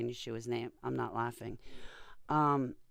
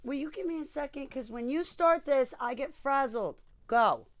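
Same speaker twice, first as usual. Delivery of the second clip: much higher, singsong voice to the dog; high pet-talk voice; 13 semitones higher, 7 dB louder than usual. Real, not acted. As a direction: coax the excited dog in a high voice. Talking to excited pet.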